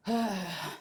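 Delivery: long weary sigh; heavy sigh. Real, not acted. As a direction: sigh before a difficult subject. Sighs before a difficult topic.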